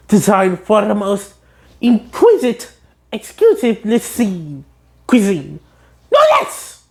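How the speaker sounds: rising posh boast; haughty spatula. Retold or imitated. The spatula boasting of fine cuisine, haughty.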